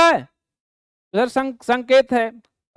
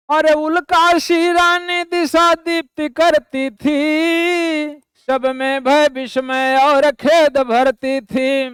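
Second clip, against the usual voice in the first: slow, half-sung verse recital; poem recitation; 2 semitones higher, slower than usual. Acted. Teacher reciting the next stanza to the class, slow intoned recital. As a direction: intone the stanza slowly like a chant.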